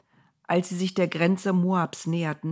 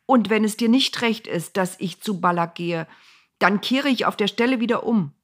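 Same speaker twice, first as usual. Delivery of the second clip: pleading Bileam; 4 semitones higher, 4 dB louder than usual. Acted.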